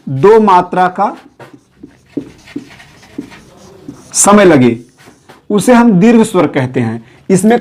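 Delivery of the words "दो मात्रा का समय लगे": दो मात्रा का, slow, दो stressed, pause before समय लगे; teacher stressing the number दो, drawn out. Shown as a demonstration. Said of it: "कितनी मात्रा का?". (शिक्षक की तरह "दो" पर ज़ोर, धीमे)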